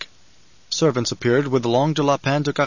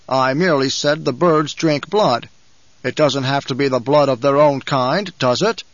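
lightly voiced banker, louder; a touch of the banker, louder and measured; banker's voice; 4 dB louder than usual. Banker defends himself.

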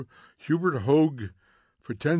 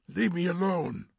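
higher-pitched plea to be left; tense rebuff; 6 semitones higher than usual. A narrator's reading. Montag answers the whisper in his ear, tense. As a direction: push the voice away.

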